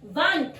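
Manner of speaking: WANT as वांट, said on its own; modelled pronunciation. Shown as a demonstration. Teacher gives first example, careful pronunciation. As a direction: say वांट carefully as a single word. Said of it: "वो होता है वांट".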